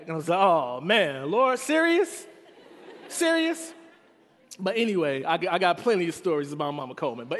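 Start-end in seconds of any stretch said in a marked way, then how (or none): 0.4-3.7 high, loud laughing protest; mock disbelief. Caught by mom, boy protests, high laughing disbelief. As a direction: whine it like a caught kid.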